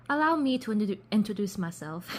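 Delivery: badly faked British gentleman, breaking into a laugh; attempted British accent. British passenger introduces himself to Chloe, shaky amateur British accent. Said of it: "I'm trying to do a British accent".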